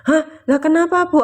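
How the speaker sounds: startled surprise. Retold or imitated. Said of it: "aku tuh".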